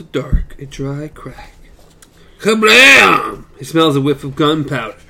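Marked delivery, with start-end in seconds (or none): 2.4-3.4 loud, high Kablam!; mock gunshot. Reading the book to his cohost, shouts the gunshot. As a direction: bang it out like a gunshot. Gunshot read aloud dramatically.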